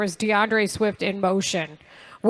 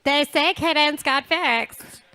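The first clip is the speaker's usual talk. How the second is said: put-on basic white girl voice; 4 semitones higher, slower than usual. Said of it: "that's your basic white girl voice".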